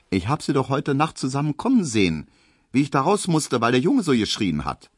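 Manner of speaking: hint of a knowing servant girl; gently voiced Pauline, amused; lightly voiced maid Pauline. A narrator's reading.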